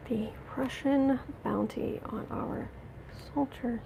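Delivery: pleading. Real, not acted. Pleading question, repeated.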